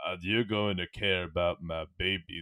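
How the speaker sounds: deep earnest put-on voice. Imitating Vin Diesel wanting dramatic roles, Vin Diesel sounding like Rocky. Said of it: "I'm making him sound like Rocky".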